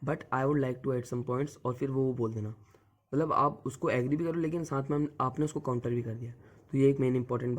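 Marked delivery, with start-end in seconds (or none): 0.1-1.6 very slow, deliberate polite English; polite counter in debate. Shown as a demonstration. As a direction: ease into the counterpoint, very slowly. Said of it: "तो आप बोलना कि".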